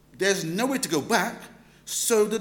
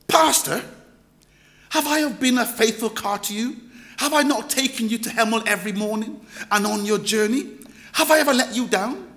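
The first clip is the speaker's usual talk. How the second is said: pleading car voice; 3 semitones higher, 4 dB louder than usual. Pretend. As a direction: make the car sound wounded and loyal. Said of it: "if your car spoke to you".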